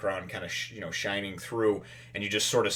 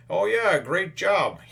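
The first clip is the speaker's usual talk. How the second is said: smug villain; 10 semitones higher, 5 dB louder, slower than usual. Retold or imitated. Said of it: "all of a sudden we hear".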